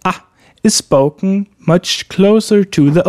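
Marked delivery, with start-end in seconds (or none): 0.1-0.1 a as a brief open front 'a'; short A. Shown as a demonstration. Teacher explaining the short A, brief open a. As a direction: say a short, mouth wide open. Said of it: "The short A".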